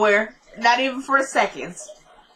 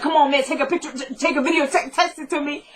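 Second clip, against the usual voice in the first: higher, sarcastic taunt; mocking jeer; 6 semitones higher than usual. Eddie to Brad, a high sarcastic jeer. Eddie mocks while dragged out.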